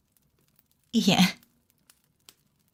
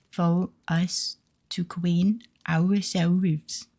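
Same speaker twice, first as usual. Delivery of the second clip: slow cutesy uwu reading, r into w; much slower than usual. Acted. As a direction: read it in baby-talk uwu speak. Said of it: "putting the Uwu message in, and I'll try to read it".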